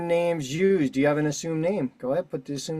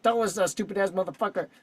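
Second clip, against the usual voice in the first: lightly voiced blunt mother, pitched higher; a hint of mom's higher voice; imitating mother's talk; 4 semitones higher than usual. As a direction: quote your outspoken mother from the projects. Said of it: "that's how she talks".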